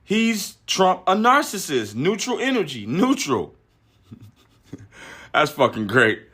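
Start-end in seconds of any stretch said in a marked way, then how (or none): 0.0-3.6 a hint of impersonating Bill Burr; quoting Bill Burr. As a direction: repeat his words with mock insistence. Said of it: "He said".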